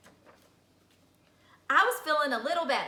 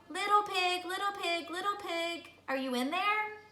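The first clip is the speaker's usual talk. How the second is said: calling out; 6 semitones higher, 4 dB quieter than usual. Acted. Wolf calling at the straw house.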